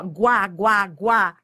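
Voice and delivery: "guá" repeated, hit crisply; syllable drill. Shown as a demonstration. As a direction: drill the sound "guá" one at a time. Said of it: "Ó, ó". ("guá" repetido, bem marcado)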